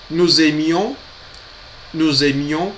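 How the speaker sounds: Nous aimions said noo-zeh-MYOH, linked; Nous aimions, the s joined, noo-zeh-MYOH; model pronunciation. Shown as a demonstration. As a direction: repeat Nous aimions for practice. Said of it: "para vocês treinarem".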